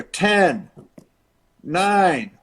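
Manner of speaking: lightly voiced announcer countdown; ring announcer. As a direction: count down as an arena announcer, each number drawn out. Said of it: "the announcer goes".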